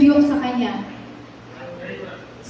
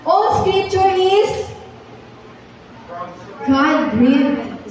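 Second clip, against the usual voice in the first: higher, slow, drawn-out verse; slow, higher memory verse chant; slow higher recitation; much slower than usual. Shown as a demonstration. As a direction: lift the opening and recite slowly. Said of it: "sabay-sabay po tayong mag-memorize".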